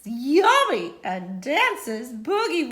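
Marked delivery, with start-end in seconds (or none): 0.0-0.9 monster yummy. Acted.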